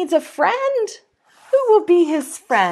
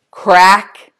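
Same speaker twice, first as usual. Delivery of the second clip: crack sound; 8 semitones lower, 8 dB louder than usual. Acted. Egg cracks open.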